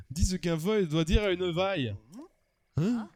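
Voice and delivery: commanding mock Russian accent; Russian accent drifting towards German. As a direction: give orders in a hammed-up Russian accent. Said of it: "j'ai du mal à tenir l'accent russe".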